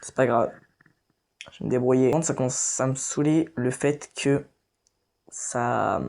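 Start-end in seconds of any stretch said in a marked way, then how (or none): 5.3-6.0 whisper. Real, not acted. Whispered in the middle of a sentence.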